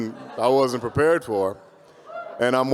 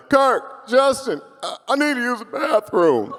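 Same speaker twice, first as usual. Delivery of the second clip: high-pitched mock panic; urgent plea; 10 semitones higher, slower than usual. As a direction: call out desperately to the booth. Acting out urgent plea to booth.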